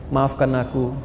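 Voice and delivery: low, soft apology, mildly tearful; imitated tearful plea. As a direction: mimic a son softly begging forgiveness. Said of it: "dia menangis". (menirukan anak menangis minta maaf)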